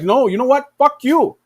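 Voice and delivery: hammed-up insult thrown back; mock angry retort. China stand answers USA, mock angry. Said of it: "And then China's like".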